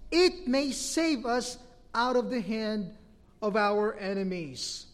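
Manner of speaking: measured, emphatic public Bible reading; declaimed verses with deliberate pauses; scripture reading. Real, not acted. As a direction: read scripture out to a congregation, phrase by phrase. Reads scripture aloud to congregation.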